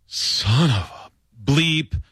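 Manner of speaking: exasperated. Retold or imitated. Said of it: "like, just exasperated".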